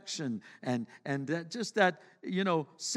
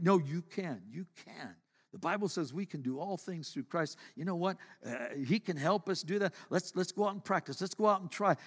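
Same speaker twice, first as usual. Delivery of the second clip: softer reassuring father voice; gentle encouraging dad; 5 dB quieter than usual. Retold or imitated. Dad softly coaxing his discouraged son, reassuring. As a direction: coax the child kindly, quietly. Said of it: "a little encouragement".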